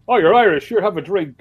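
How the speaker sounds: high, loud mock enthusiasm; imitated eager strangers. Holiday strangers meeting an Irishman, imitated eager offer.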